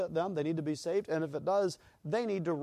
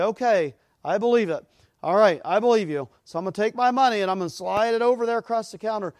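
eager customer; 4 semitones higher, 6 dB louder than usual. Retold or imitated. Customer handing money to teller.

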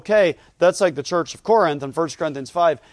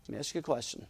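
very soft, lower aside; hushed repeat; 3 semitones lower, 16 dB quieter, much faster than usual. Real, not acted. Preacher putting a question to the congregation, hushed. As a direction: drop right down for the question.

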